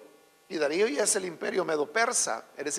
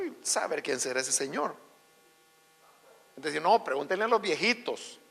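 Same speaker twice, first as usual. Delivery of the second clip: ordinary delivery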